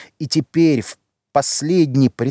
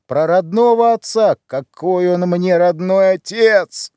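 bitter outburst; 5 semitones higher than usual. Acted. Сын с гневом отрекается от отца.

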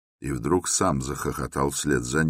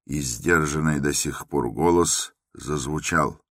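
ordinary delivery

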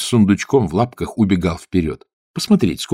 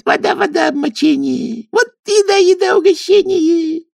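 high, gleeful squeaky chant; mock Kuzka in a sing-song squeak; merry kikimora voices. A narrator's reading. Swamp kikimoras merrily tease Kuzka, high squeaky chant. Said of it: "подхватили весёлые голоса".

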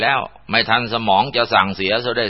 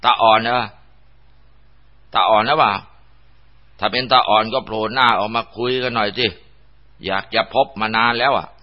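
a slightly raised, questioning call; calling out bravely; 3 semitones higher than usual. Acted. Man calling to a possible ghost in the bushes, mildly raised voice. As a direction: force the nerve to ask aloud. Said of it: "ก็แข็งใจถามไปดังๆ".

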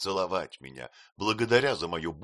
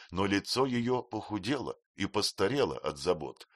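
ordinary delivery, nothing marked

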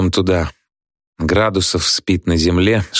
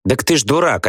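higher-pitched, disconcerted remark; taken aback; 7 semitones higher than usual. A narrator's reading. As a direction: say it as if thrown off balance. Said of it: "обескураженно говорит Люська". (обескураженно, повыше)

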